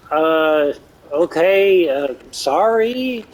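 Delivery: imitating a nervous little friend backing off; meek apology. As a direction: shrink back and apologise slowly. Tiny friend backs down meekly.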